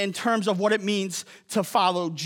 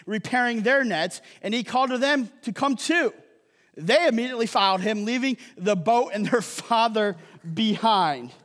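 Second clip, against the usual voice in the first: measured Bible reading to the congregation; scripture reading; 2 semitones higher than usual. A narrator's reading. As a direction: read it out clearly, phrase by phrase. Reads scripture aloud to congregation.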